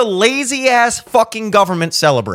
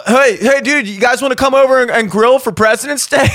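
mock party invite; 4 semitones higher than usual. Comic mocks inviting friends over, mild upbeat bro voice. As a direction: pitch a cookout like an eager buddy. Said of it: "I can't even say that with a straight face".

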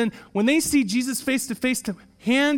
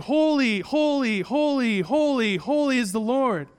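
ringing, higher repeated acclamations, each falling away; unbroken chorus of praise; 4 semitones higher, slower than usual. A narrator's reading. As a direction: proclaim each one like angels answering one another. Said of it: "answered one another without intermission, saying".

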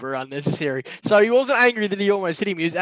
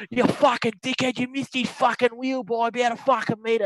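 retold yelling; 7 semitones higher than usual. Teller answering the yelling golfer back, mock yell. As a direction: imitate someone having a go. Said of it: "he's just yelling".

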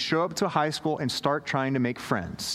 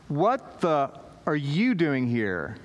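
put-on shocked teen; 2 semitones lower, slower than usual. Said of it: "what you say to a youth pastor".

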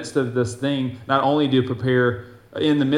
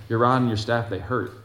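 reluctant complaint. Pretend. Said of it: "you're like, "Uh-uh".

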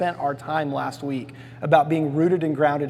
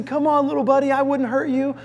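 higher, coaxing sweet-talk; enticing lure; 7 semitones higher than usual. Retold or imitated. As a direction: tempt the tiger like bait. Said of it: "this enticing".

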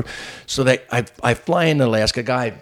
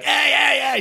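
high, whooping greeting; rowdy stage entrance; slower than usual. Retold or imitated. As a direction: imitate a hyped comic greeting a crowd. Acts comic bursting onto stage.

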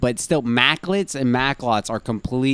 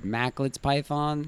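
mocking; 4 dB quieter, slower than usual. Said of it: "That sounds so stupid".

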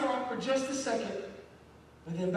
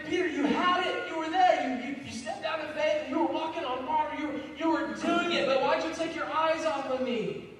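higher, kindly coaxing a student; gentle teacher; 4 semitones higher than usual. Retold or imitated. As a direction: encourage him like a patient teacher, lightly voiced. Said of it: "Jesus, I'm sure, is looking at Peter".

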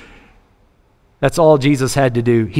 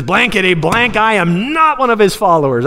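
higher, emphatic mock-swearing denial; cussing and swearing; 6 semitones higher than usual. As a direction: swear it off in indignant, censored oaths. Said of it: "he begins to cuss and swear".

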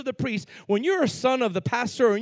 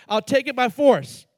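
menacing threat; 2 semitones higher, 5 dB louder than usual. Shown as a demonstration. Preacher showing the congregation the threat, menacing. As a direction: lean into the menace. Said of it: "Watch this".

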